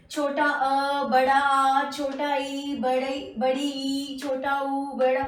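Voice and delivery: imitating the sing-song chant children learn, छोटा and बड़ा; mock the school chant of बड़ा आ, छोटा ई; the wrong sing-song chant kids use; childish way. Shown as a demonstration. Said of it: "तो इसे इस तरह से नहीं पढ़ना है".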